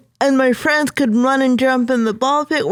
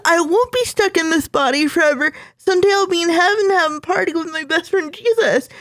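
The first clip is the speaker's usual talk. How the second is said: put-on tearful hopeful child; 5 semitones higher than usual. Child's hopeful declaration to mom.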